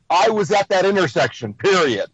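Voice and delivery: "intersection" falling, then "period" spoken as a final stop; transcript-style statement. Shown as a demonstration. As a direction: read it as a firm statement, landing on "period". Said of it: "On the transcript, it says".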